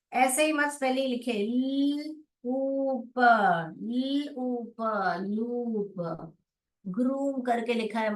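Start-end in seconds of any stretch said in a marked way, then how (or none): 1.3-6.3 ल then ऊप, then लूप very slow; blending लूप. Shown as a demonstration. Teacher to kids, slow blending of लूप. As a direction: drag the sounds out to join into लूप. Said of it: "जोड़ जोड़ के पढ़िए".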